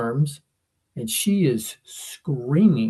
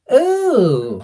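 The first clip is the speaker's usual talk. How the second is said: high, louder let-down "Oh."; disappointed oh; 10 semitones higher, 7 dB louder than usual. Retold or imitated. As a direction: deflate like three girls losing interest. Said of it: "all three went".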